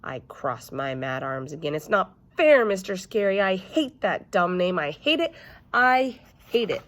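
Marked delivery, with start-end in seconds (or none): 1.7-6.8 angry protest. Acted. Junie B angry at teacher.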